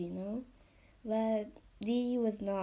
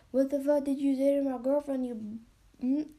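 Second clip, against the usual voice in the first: loud, fast, higher mock challenge; mock angry confrontation; 3 semitones higher, 5 dB louder, faster than usual. Imagined boyfriend confronting the man who catcalled his girlfriend, mock angry. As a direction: act out a jealous boyfriend squaring up.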